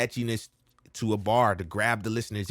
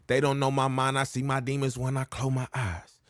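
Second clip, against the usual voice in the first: "eyes" dropped lower and softer; lower at the end; 4 dB quieter than usual. Shown as a demonstration. Coach showing the low ending on "eyes". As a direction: let "I close my eyes" sink low. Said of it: "I go lower at the end of it".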